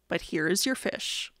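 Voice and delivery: lightly voiced low character; Mister Carp. A narrator's reading. Fish seller returns the boy's fish, low-voiced.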